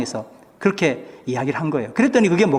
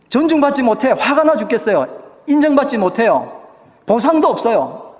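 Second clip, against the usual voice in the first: mock frustrated complaint; 6 semitones higher than usual. Voicing the congregation's frustration.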